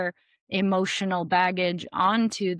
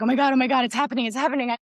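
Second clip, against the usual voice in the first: mock panic; 4 semitones higher, 4 dB louder, much faster than usual. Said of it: "she's like".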